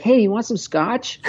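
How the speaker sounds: lightly high, cheeky grandma offer; a hint of a mischievous little old lady; imitating grandma offering scotch in the afternoon. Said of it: "she's like".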